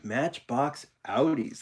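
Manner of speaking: slow words through a yawn. Real, not acted. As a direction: say it mid-yawn, stretched out. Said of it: "sorry, I'm yawning".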